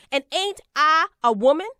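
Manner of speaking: fast and loud, rising on woman; defiant refrain, called out; loud rhetorical challenge. Acted. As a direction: throw the question at the hall. Rousing refrain to the crowd.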